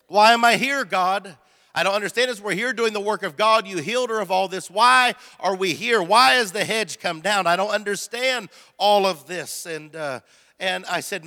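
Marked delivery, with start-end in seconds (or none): 0.1-9.6 retold, exasperated questioning of God; exasperated plea. Husband asks God why they came, exasperated plea. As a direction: let the why questions burst out in frustration.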